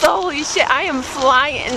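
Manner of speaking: jolted voice on bumps; on a bumpy road. Real, not acted. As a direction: speak while bouncing downhill.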